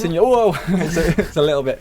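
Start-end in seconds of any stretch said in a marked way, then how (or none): 0.3-0.6 high squeaky voice. Retold or imitated. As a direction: jump way up into a squeaky whoa. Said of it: "his really high voice".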